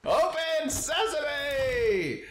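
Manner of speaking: high, slow, drawn-out proclamation; dramatic shout. Pretend. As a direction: call it like a magic spell. Opening the chest dramatically.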